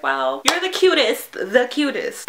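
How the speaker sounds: high, drawn-out cooing praise; slow down and gush, re-enacting the adoration; adoring gush. Fan to the singer still holding her hands, adoring gush.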